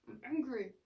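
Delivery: just name the feeling and let it be; a calm, accepting self-talk voice; calm acknowledgment. Shown as a demonstration. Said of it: "Just feel angry for a second".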